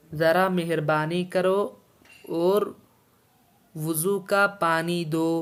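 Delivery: slow, word-by-word Urdu reading, clear pauses between phrases; slow dictation. Shown as a demonstration. Teacher dictating the Urdu sentence to students, slow and deliberate. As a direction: read it out slowly so students can follow. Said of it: "teacher repeats line slowly to dictate".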